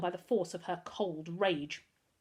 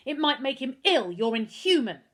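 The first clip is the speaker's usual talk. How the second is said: raised, outraged telling-off; indignant scolding; 3 semitones higher, 5 dB louder than usual. Acted. Girl berating the headmaster through a locked door, indignant.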